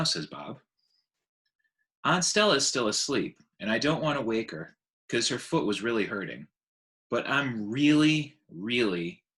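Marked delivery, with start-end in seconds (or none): 2.0-9.2 put-on young elephant voice. Ruby voiced by narrator.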